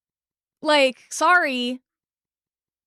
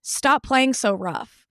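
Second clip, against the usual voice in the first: mock scolding; 4 semitones lower than usual. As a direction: scold her like a reasonable adult.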